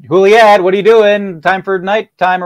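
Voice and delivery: high, loud fussing nurse calling Juliet; hammed-up harried nurse; harassed nurse. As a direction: scold her like a frazzled nanny. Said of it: "she's just, like, harassed".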